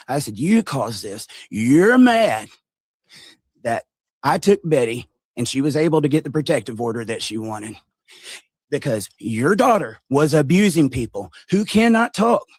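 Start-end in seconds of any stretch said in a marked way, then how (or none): 1.5-12.5 louder, higher heated accusation; retold angry rant. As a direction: tell him off, building heat. Angry confrontation with Larry.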